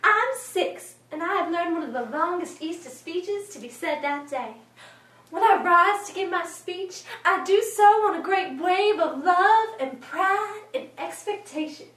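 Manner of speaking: lightly voiced young storyteller, lively and self-assured; a touch of childlike pride, building on the big words; proud little girl narrator. Six-year-old telling of her Easter speech, lightly proud.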